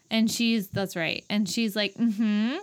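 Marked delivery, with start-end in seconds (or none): 1.9-2.5 imitated, feigned understanding; pretending to understand. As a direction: nod along as if you understood. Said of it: "she's pretending to know what he's saying".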